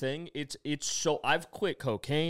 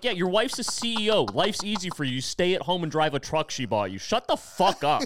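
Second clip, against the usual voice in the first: raised, higher voice, slowing into a furious shut the fuck up; heated yelling; 6 semitones higher, 4 dB louder than usual. Retold or imitated. To an older man in the rooms, heated shouting. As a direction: tell him off loud and high. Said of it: "It's like".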